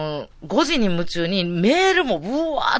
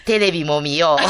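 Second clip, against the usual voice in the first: lightly mimicked singer's speaking voice; a hint of comic celebrity mimicry; impression of a singer; 3 semitones lower, 4 dB louder than usual. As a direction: tack on a line in imitation. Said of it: "松任谷由実さんのモノマネしだしてやんか".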